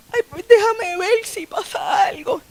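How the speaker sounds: put-on high, slow, wondering girl's voice; lightly voiced hopeful girl. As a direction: lift it way up and slow down, hoping. Ana's hopeful aside, voiced.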